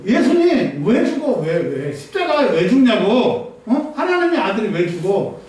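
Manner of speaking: 나무람. Retold or imitated. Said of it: "베드로가 예수님 나무란 거예요".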